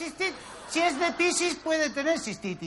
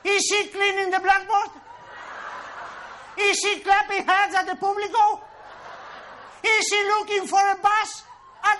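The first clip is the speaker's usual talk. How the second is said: mock excited quiz; 3 semitones higher, 5 dB louder than usual. Hammed-up English quiz.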